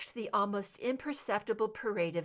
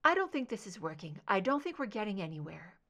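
stronger, firmer; faster than usual. Acted. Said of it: "Her voice gathered strength".

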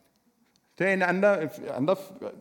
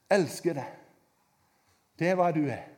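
ordinary talk

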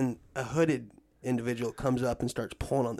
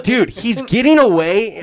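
urgent shout; 7 semitones higher, 12 dB louder, slower than usual. Retold or imitated. Urging cop to chase.

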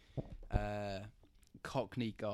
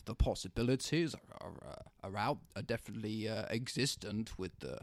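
imitating old dude. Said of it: "And he's like".

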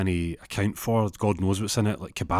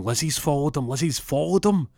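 mock-scandalised revelation; 7 semitones higher than usual. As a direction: pitch climbing on the repeat. Teller voices the final blow.

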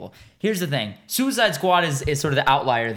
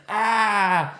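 mock pained cry; 6 semitones higher than usual. Imitating cry as hand blows up.

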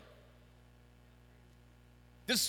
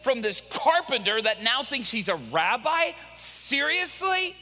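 high, incredulous protest; mock outrage at a crazy plan; exasperated crew; 7 semitones higher than usual. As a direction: scold him like he's lost it. Crew quarrels with Peter.

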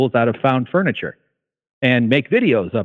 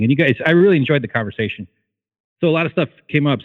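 out of breath; 2 semitones higher, faster than usual. Real, not acted. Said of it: "Sorry, I'm out of breath".

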